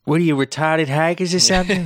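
mock the jerk at the booth; rude ticket guy. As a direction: friend quotes his favorite jerk line, sneering.

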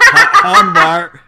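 exaggerated Texas twang, laughing; hammed-up Southern stretch on Hanweir; Texas drawl. Mocking a Texas accent for the co-host. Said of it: "'cause I'm from Texas".

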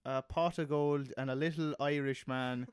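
loosely put-on Irish lilt; attempted Irish accent. Comic describing a little magical Irishman to his co-host, attempted Irish accent. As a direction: have a rough go at an Irish accent. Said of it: "speaks exactly like this".

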